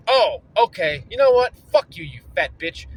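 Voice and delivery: loud, rising then spat-out curse; furious insult. Retold or imitated. Insulting the clerk after losing patience, loud angry. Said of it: "I'm so fucking upset right now".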